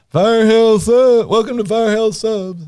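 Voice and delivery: light mock shout of a shop greeting; mock call-out. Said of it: "I'll call out".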